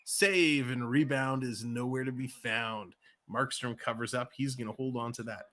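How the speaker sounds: quick, lively live game call; rink-side commentator rolling through the play; hockey play-by-play. Acted. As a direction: call the action as it happens.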